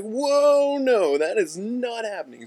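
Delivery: very high, loud panicked no; alarmed refusal. Retold or imitated. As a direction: recoil and shut it down fast. Hunter refuses the bum.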